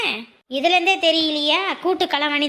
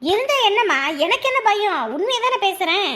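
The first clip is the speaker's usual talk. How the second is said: higher-pitched, unafraid comeback; indignant and openly defiant; defiant retort; 3 semitones higher than usual. Acted. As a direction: refuse to be hushed. Defiant answer to being hushed.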